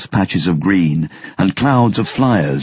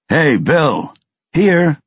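yelling over noise; 9 semitones higher, much slower than usual. Acted. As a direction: shout it out so he can be heard. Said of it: "He had to yell over the noise".

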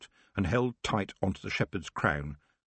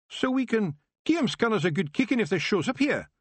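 high Scots wee-man voice, cheerful; a tiny Scottish warrior boasting; Feegle chieftain, proud; 13 semitones higher than usual. Acted. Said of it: "he asked".

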